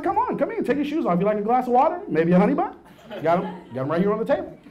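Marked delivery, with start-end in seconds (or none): 0.0-2.7 overly eager host. Retold or imitated. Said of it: "yeah, I'm like".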